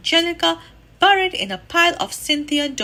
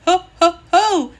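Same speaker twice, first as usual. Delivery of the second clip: loud, higher jolly laugh-call; 5 semitones higher, 8 dB louder than usual. A narrator's reading. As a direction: boom out a Santa ho ho ho. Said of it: "said a loud, deep voice".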